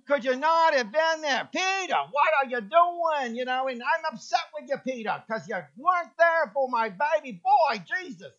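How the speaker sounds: hammed-up New York Jewish mom scolding Peter; big, loud Jewish mother berating Peter; loud Jewish mother accent. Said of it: "Good Jewish accent there".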